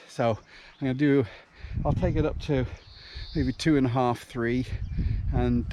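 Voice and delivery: out of breath mid-run; puffing and panting while running; while jogging. Real, not acted. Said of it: "as you can hear, I am puffing and panting a bit".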